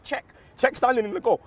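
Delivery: retold shout. Fan up a tier recalling a match, shouting. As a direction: call out as if from the stands. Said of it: "I'm shouting".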